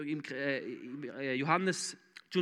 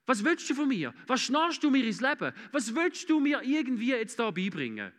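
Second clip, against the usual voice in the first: proud, affronted; 4 semitones higher than usual. Acted. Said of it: "Wenn du stolz bist".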